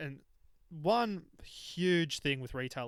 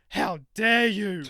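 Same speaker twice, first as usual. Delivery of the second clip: loud, slow, drawn-out mock outrage; hammed-up offended lady, stretching every word; indignant outrage; 5 semitones higher, 9 dB louder, much slower than usual. Older customer snapping at the shop worker, loud and drawn out. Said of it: "and she goes".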